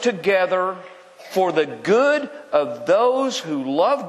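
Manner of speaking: measured scripture reading; slow reading. Shown as a demonstration. Preacher reading a promise to believers, slow and measured. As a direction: read the verse out deliberately, phrase by phrase. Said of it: "Let me read it again slowly".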